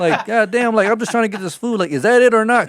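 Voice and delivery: high, loud exasperated rant; mock yelling. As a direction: rant at him about the food, laughing a bit. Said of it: "I'm starting to scream at him".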